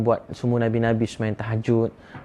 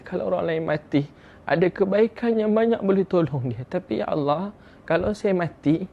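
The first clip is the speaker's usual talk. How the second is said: higher-pitched, mildly imitated weeping prayer; retold tearful plea; 4 semitones higher than usual. Sinner begging God for help in night prayer, mildly tearful imitation. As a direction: plead to God as the weeping man, without real sobs. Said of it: "dia terus duduk dan dia menangis".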